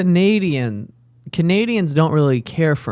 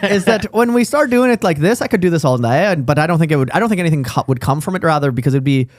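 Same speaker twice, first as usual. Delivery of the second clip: put-on Irish accent; 3 semitones lower than usual. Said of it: "I can do it quite well".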